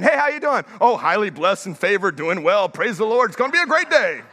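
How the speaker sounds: lightly hammed-up upbeat greeting; put-on church cheer. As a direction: greet like a churchgoer masking a bad week.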